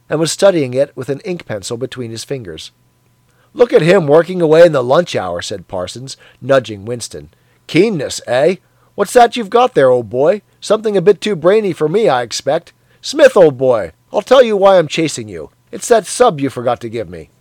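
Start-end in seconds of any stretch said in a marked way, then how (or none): 3.5-5.4 loud, jovial bloke; a hearty colleague teasing; hearty Parsons. Acted. Parsons voiced in dialogue. 7.7-17.3 loud, jovial bloke; a hearty colleague teasing; hearty Parsons. Acted. Parsons voiced in dialogue.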